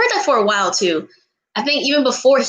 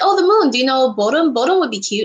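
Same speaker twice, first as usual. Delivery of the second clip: eager suggestion; 3 semitones higher than usual. Retold or imitated. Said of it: "they were like".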